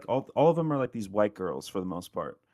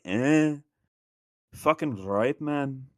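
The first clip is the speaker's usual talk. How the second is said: mock Scottish accent; 4 semitones higher, much slower than usual. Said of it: "They go like".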